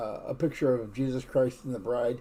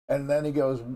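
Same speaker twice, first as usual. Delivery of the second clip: ordinary talk, nothing marked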